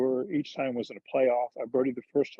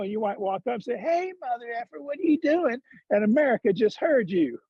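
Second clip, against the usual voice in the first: higher-pitched Georgia hick, peaking on the mock greeting; Charlie Reimer's hick accent; 5 semitones higher than usual. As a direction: imitate a hick trainer building to a punchline. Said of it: "he's got this hick accent".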